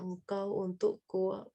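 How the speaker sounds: soft and slow, lingering on each word; hushed, unhurried, as an intimate promise; tender divine declaration. Retold or imitated. God telling a servant he is His, softly tender. God's words to a beloved servant.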